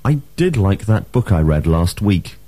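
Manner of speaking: "did" carrying the main stress; emphatic DID. Shown as a demonstration. Teacher models a second past example, stressing "did". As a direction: lean on "did". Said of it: "the emphatic form can also be used".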